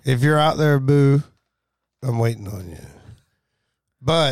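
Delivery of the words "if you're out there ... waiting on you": seductive, calling out to her; sexy voice. Pretend. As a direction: croon it like a lover's call. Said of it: "He said it with a sexy voice".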